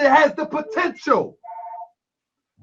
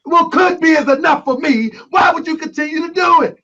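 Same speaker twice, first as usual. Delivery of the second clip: louder, heated challenge; raised voice; 5 semitones higher, 3 dB louder than usual. Real, not acted. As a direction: press him hard, voice up. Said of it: "I apologize if I raise my voice".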